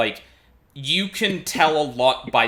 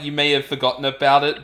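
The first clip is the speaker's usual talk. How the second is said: mock dramatic; 4 semitones higher, 7 dB louder, faster than usual. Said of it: "the comment before of".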